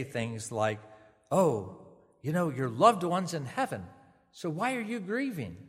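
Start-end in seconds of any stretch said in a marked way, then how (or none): 1.3-5.6 higher-pitched, lilting imitation of a consoler; put-on upbeat consoling voice; well-meaning platitude. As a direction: mimic someone cheerily questioning the mourner.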